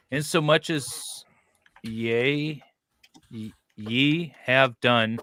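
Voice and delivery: slow, halting King James recital; mock scripture reading. Reciting the King James verse, slow and stumbling. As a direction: stumble through the verse slowly. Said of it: "That's the worst way of saying it".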